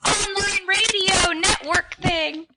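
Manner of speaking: put-on high, wavering old woman; old lady voice. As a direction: cheer like an elderly mom. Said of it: "I used an old lady voice".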